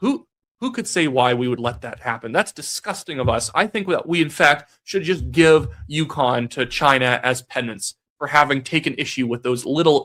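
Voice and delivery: sarcastic, with fake horrified outrage. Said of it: "he was being sarcastic".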